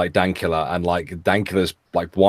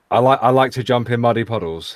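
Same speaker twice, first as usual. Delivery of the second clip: English accent; 3 semitones higher than usual. Shown as a demonstration. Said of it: "Will you say".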